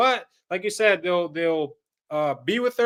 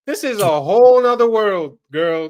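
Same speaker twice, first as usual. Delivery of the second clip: louder, hitting the word whole hard; loud emphatic; 6 dB louder than usual. Acted. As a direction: belt it out like a warning. Repeats line, first time punched.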